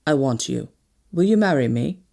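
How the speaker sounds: gently voiced colonel, starting low; gentle. A narrator's reading. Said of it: "he said gently".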